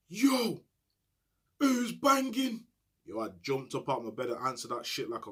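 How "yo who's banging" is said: high, slow, drawn-out call from a cell window; shouted call. Retold or imitated. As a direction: stretch it out across the landing like a night shout.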